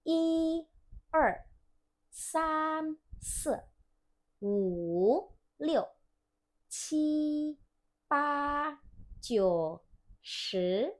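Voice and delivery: teacher drilling the numbers aloud; counting in Mandarin. Shown as a demonstration. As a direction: clear Mandarin count from one to ten, each tone marked. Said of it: "Langsung pakai yang gini ya".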